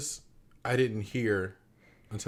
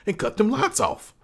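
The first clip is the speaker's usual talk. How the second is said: high, loud Southern mock scolding; hammed-up Southern accent; 9 semitones higher, 7 dB louder than usual. Mock-warning noisy kids before a whooping, loud Southern accent. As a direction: play a fed-up Southern scolder, building louder. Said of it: "my Southern accent's gotten really good".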